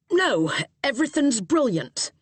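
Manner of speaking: put-on Cockney accent. A narrator's reading. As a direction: East End cab driver. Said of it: "heavy Cockney accent".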